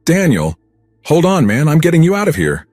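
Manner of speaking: high, loud shout to a dying friend; frantic high-pitched yell; desperate scream. A narrator's reading. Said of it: "I started screaming".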